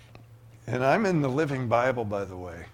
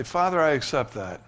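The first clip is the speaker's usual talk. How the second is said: a touch louder, earnest prayer; model prayer; 3 semitones higher, 4 dB louder than usual. Acted. Preacher modelling a prayer for the congregation, earnest. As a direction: pray it out boldly. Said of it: "Just say".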